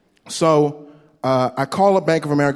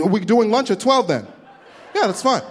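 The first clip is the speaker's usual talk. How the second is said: higher, bright mock cheer; suddenly sweet office chatter; chirpy coworker voice; 6 semitones higher than usual. Coworkers mocked cheerfully switching to lunch.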